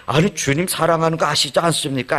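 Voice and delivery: as if the question were an insult; indignant retort. Retold or imitated. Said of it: "아니라". (당연하다는 듯 높은 목소리로 반문)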